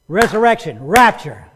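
"resurrection, rapture" fired off loud, back to back; rapid succession. Shown as a demonstration. Preacher shows it happens instantly, "resurrection, rapture" quick and loud. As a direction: punch "resurrection" and "rapture" with no gap. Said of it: "That's not it. It's".

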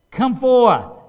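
loud command. Acted. Preacher voices Jesus summoning the dead in Christ, loud command. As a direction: call it out high and loud. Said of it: "the loud command".

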